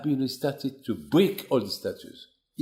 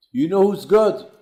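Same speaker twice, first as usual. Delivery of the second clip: higher and louder, demanding; angry demand; 9 semitones higher, 8 dB louder than usual. Acted. Nimrod interrogating the arrested boy: an angry, loud demand. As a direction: bark the question at him.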